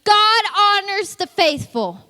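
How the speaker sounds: high, slow, proud recital; emphatic, drawn-out memorized reply; eager child's answer. Acted. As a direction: announce it as a well-learned answer. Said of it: "You can be like".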